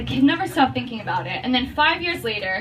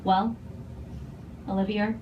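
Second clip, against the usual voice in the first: put-on thick Boston accent; 2 semitones lower, 7 dB quieter than usual. Mom answering her daughter about dad, thick Boston accent. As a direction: deliver it gravely in thick Boston. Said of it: "in her thick Boston accent".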